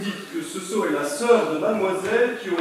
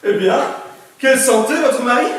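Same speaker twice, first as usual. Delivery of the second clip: surprised exclamation; 3 semitones higher, 5 dB louder than usual. Acted. Notary exclaims, loud.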